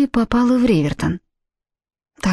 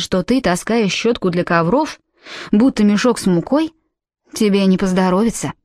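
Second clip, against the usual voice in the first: put-on Irish accent. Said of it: "с отчётливым ирландским акцентом".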